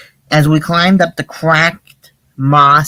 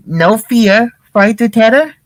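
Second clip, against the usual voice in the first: higher, disbelieving question; shocked; 5 semitones higher, slower than usual. Acted. Shaggy disbelieving Fred's answer, lightly shocked. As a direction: ask as if you can't believe it. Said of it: "And Shaggy was shocked".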